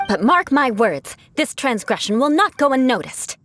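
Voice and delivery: a hint of haughty noble threat; aristocratic warning. Knight warns the worker, lightly haughty noble threat. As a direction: lightly play the offended noblewoman. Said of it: "my aristocratic manner of speech".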